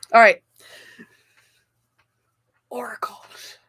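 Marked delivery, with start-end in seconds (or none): 2.7-3.6 very soft, half to oneself; hushed musing. Real, not acted. Reader names the oracle card drawn, hushed musing. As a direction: murmur it quietly while reading. Softly murmuring while reading a card.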